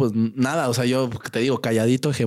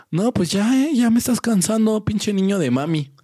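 higher, pushy bully taunt; bully threat; 8 semitones higher than usual. Retold or imitated. Bully taunting the boy, mock annoyed. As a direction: lose patience with the kid. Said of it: "bully threatens".

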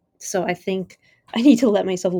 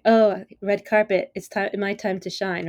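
mock vain preening; 3 dB louder than usual. Mocking vain festival-goers.

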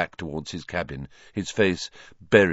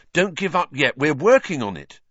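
higher, louder encouragement; fierce; 8 semitones higher, 5 dB louder than usual. A narrator's reading. Ron urging Hagrid to keep fighting, fierce. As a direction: urge him on fiercely. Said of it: "said Ron fiercely".

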